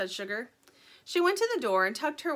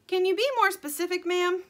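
chicken voice; 9 semitones higher, 6 dB louder than usual. Acted. Dirt voiced, higher.

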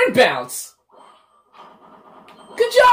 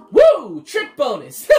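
mock whoop; 4 dB louder, slower than usual. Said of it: "And he's just like".

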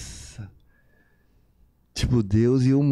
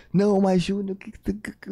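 higher, panicked mother voice; mother on the phone; 8 semitones higher than usual. Retold or imitated. Son voices his worried mother calling in tears, higher and frantic.

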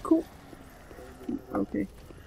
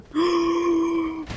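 high, drawn-out gasp of alarm; 8 semitones higher, 4 dB louder than usual. Real, not acted. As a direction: suck in air in panic. Sees two enemies coming. (forskrækket gisp)

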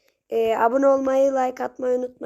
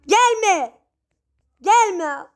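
scared plea; 6 semitones higher, 4 dB louder than usual. Real, not acted. Pleading enemy away.

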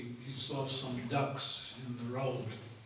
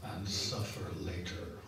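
lower, laughing through the punchline; 6 semitones lower than usual. Retold or imitated. Teacher tells disciples the fisherman's fate, laughing. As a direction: deliver the twist chuckling. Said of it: "then said to the disciples".

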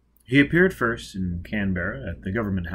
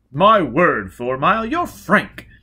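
surprised exclamation; 7 semitones higher, 8 dB louder than usual. Acted. Guest exclaims.

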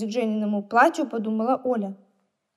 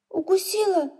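sympathetic; 7 semitones higher than usual. A narrator's reading. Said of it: "сочувственно".

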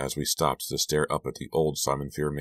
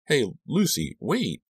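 high-pitched call after a friend; acted urgent calling, pitched high; 10 semitones higher, slower than usual. A narrator's reading. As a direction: call to someone getting away. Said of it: "I called".

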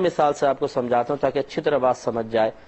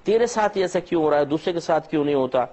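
quick, needling devil's taunt, lightly voiced; Satan's taunting whisper; faster than usual. Satan taunting a grieving believer, a quick, lightly voiced jeer. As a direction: rush the jeer like a tempter in the ear. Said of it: "شیطان فوراً کان میں آ کے کہتا ہے".

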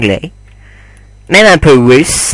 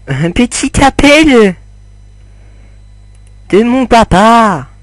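much higher, mock-dramatic voice; joking put-on voice; 10 semitones higher than usual. Gamer joking to viewers about a call, high mock voice. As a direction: squeak it out as a fake joke. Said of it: "Non, je déconne".

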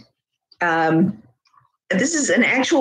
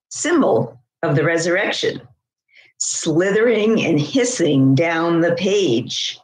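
measured, savoured poem reading; deliberate poetry recital with slight pauses. Acted. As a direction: read it as a poem, phrase by phrase. Reads own poem aloud.

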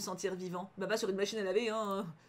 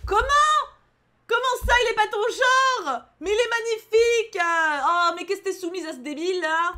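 high, loud cry of disbelief; outraged outburst; 9 semitones higher, 10 dB louder than usual. Real, not acted. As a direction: protest at the top of your voice. Outraged reaction to the story. (cri d'indignation aigu)

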